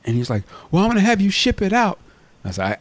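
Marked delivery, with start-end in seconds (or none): 0.7-2.0 mimicked African accent, pitched high. Scammer insisting on shipping to shop owner, African accent. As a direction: put on an African caller's insistent voice. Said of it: "like, kinda African or something".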